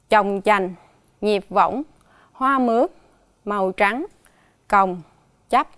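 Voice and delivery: each hard word spoken alone and clearly; slow, careful listing. Shown as a demonstration. Teacher presenting the hard words to pupils, careful and deliberate. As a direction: set each word apart for the class. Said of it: "đọc lại từ khó".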